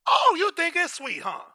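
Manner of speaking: high, slow, loud taunting voice; mock teasing. Real, not acted. Taunting the mob that thinks it's sweet, high and loud.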